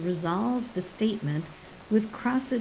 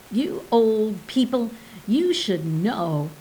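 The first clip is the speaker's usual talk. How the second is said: snorting scorn; 3 semitones higher, 5 dB louder than usual. Acted. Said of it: "Pearl snorted".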